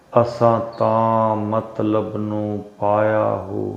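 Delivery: measured, slightly hushed Sufi verse; poem recitation. Acted. Spiritual teacher reciting Bahu's verse to meditators, measured poem recitation.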